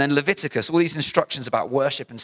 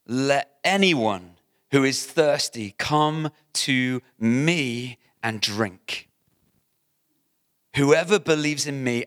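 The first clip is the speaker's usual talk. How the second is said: proclaiming; slower than usual. Acted. Reading Jesus' loud call.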